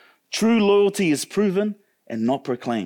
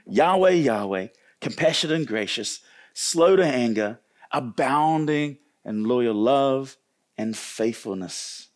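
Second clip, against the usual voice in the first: slow savoured reading; 5 semitones lower, slower than usual. Shown as a demonstration. Preacher repeating God's name to the congregation, slow and reverent. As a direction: let each word of "abounding in loyal love" sink in. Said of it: "repeated reading, savoured".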